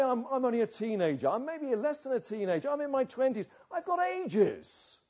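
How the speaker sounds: lightly mock a cocky youngster; mock carefree. Mimics a complacent young sinner.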